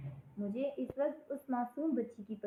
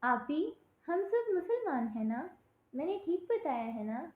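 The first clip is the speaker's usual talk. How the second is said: put-on higher, earnest childlike answer; a small girl hoping she got it right; innocent child; 5 semitones higher than usual. Little girl answering her teacher, innocent and higher. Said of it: "اس نے بہت ہی معصومیت سے مجھے جواب دیا".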